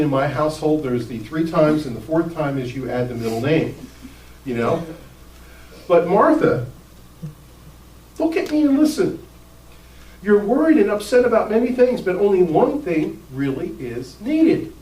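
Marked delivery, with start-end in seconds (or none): 5.9-14.7 compassionate. Retold or imitated. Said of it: "compassionate tone of understanding".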